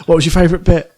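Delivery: put-on chirpy reporter asking a child. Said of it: "those Look East interviews with children".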